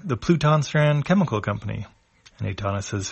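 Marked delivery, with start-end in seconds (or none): 0.0-1.9 higher, brightly announcing the name; Chipu's voice. A narrator's reading. Chipu to the crew, higher announcing the company. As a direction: present the building like a tour guide.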